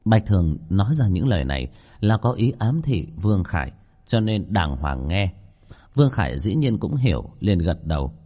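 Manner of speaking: measured ghost-story reading; story narration. A narrator's reading. Narrator telling listeners of an eerie kitchen, story narration. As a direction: read the chapter out to listeners.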